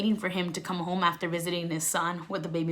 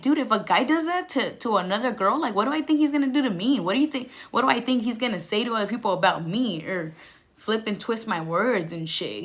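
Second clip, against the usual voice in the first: incredulous; 3 semitones higher than usual. Retold or imitated. Scolding her past self now.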